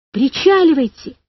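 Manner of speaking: pressing cry that builds on the repeat; shouting. A narrator's reading. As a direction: holler to the raft to come ashore. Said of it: "кричал он".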